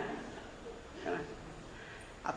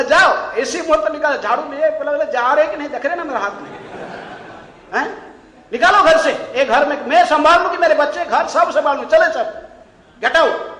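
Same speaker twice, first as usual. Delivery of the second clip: loud, higher shout; 5 semitones higher, 8 dB louder than usual. Retold or imitated. Wife shouting at husband with a broom, loud. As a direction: yell him out the door. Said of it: "झाड़ू दिखाई".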